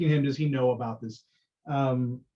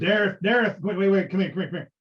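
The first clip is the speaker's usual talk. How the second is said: calling out; 5 semitones higher, 3 dB louder, faster than usual. Acted. Calling Dareth back.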